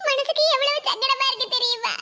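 mildly tearful, hurt protest. Acted. Wife telling husband she feels hurt, tearful. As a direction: protest through tears. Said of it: "முதல்ல அழாத".

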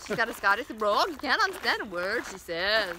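playful mock Scottish accent; Scottish brogue. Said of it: "she works with this Scottish woman".

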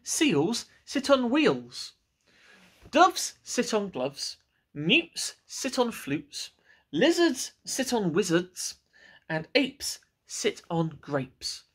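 slow, deliberate reciting of rules; know-it-all cat. Acted. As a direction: spell out the obvious rules like a smug cat.

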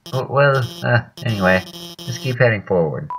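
high, excited helper voice, stumbling; flustered game character. Acted. Helper congratulating the player on the team win, flustered high voice.

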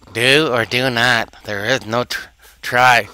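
lightly imitated wise master, drawn out; slow, measured impression of an old sage; Yoda. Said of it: "I'll do it in his voice".

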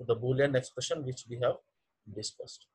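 trailing off very softly; fading to almost nothing; barely audible. Real, not acted. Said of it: "Your voice is very low".

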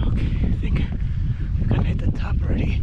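breathless whisper, winded; puffing, out of shape; out of breath. Real, not acted. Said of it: "the speaker's out of shape".

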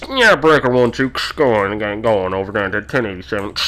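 crackly trucker on the radio; put-on radio dispatcher voice. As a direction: answer like a dispatcher over CB. CB radio reply, acted dispatcher.

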